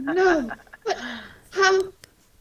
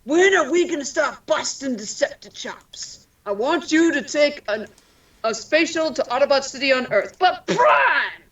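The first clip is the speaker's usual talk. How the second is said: Peter Cullen impression. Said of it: "just doing what Peter Cullen does".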